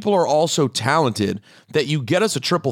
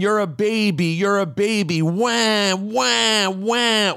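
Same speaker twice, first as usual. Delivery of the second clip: mock whiny taunt; 4 semitones higher, slower than usual. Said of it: "When she's screaming the whole thing".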